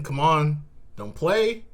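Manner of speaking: high playful scold; don't play with me, high and teasing; mock scolding. Real, not acted. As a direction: squeak it like a teasing complaint.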